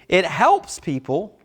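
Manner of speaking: slow, drawn out, rising on "helps"; slow teasing line. Shown as a demonstration. Salesman teasing curiosity in a customer, slow rising line. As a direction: dangle it slowly. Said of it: "So you found something".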